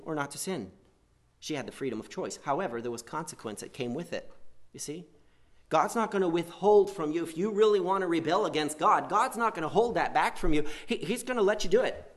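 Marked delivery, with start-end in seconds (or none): 5.7-12.1 fervent preaching. Real, not acted. Preaching climax.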